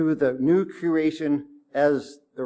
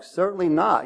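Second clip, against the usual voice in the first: firm, higher-pitched denial; emphatic exclamation; 5 semitones higher than usual. Retold or imitated. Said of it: "Big exclamation mark".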